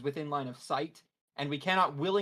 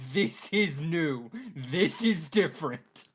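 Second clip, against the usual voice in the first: awed fear; 4 dB louder, slower than usual. Acted. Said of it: "Dukagon is like".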